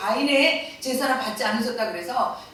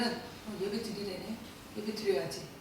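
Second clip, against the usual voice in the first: careless Cain; 3 semitones lower, 14 dB quieter than usual. Retold or imitated. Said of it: "가인은".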